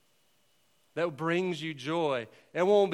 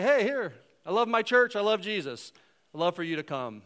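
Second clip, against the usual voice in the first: bright, higher and louder gushing invitation; eager invite; 5 semitones higher, 4 dB louder than usual. Pretend. Church member inviting a neighbor, eagerly and louder. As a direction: burst out with joy about church.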